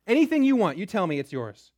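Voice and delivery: lavish it on her like a doting king; generous king. Acted.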